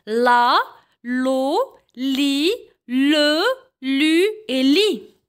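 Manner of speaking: chaque syllabe en « j » détachée avec soin; syllabes articulées. Shown as a demonstration. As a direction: montre la syllabe, puis une pause. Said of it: "Je répète". (syllabes en « j » dictées au professeur)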